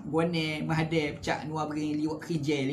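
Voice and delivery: imitating Kuala Berang Terengganu speech; Kuala Berang dialect. Shown as a demonstration. Preacher showing that outsiders can mimic locals, Kuala Berang dialect. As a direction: reel off phrases in a Terengganu accent. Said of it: "cakap Kuala Berang".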